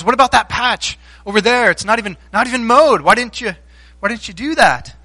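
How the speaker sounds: very angry father. Retold or imitated. Father scolding his son over the botched lawn, angry. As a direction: demand answers like a fed-up dad. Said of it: "he's very angry".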